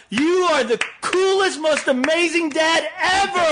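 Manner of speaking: high-pitched imitation of a teenage girl; mock squealing teen adoration; gushing fangirl. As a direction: gush like a starstruck young fan. Acting out a gushing teenage fan.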